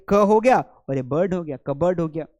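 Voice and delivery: "कबर्ड" built from "क" and "बर्ड"; teacher splitting "कबर्ड" into two parts without p; syllable breakdown. Shown as a demonstration. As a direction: sound out क, then बर्ड, then join as कबर्ड. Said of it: "इसे कबर्ड पढ़ा जाएगा".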